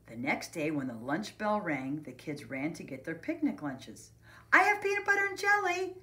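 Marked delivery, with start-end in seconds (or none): 4.5-6.0 put-on high, quick, loud kid voice; proud announcement. A narrator's reading. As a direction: announce it to the whole class. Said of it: "announced to the class".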